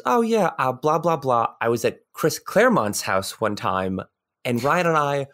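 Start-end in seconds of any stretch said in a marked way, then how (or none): 0.0-4.0 casual mention. Retold or imitated. Guest mentioning a famous creator's house in passing, casual. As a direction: toss it off casually, imitating the guest. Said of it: "he casually mentions".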